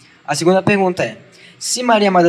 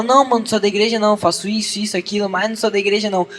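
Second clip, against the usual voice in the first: higher, hurried brush-off; quick, higher-pitched acted excuse; mock casual denial; 4 semitones higher, faster than usual. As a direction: imitate a teen quickly waving off the question. Acted teen denying church to friends.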